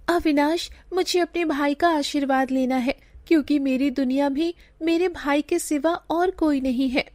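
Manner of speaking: put-on sugandha's girlish voice.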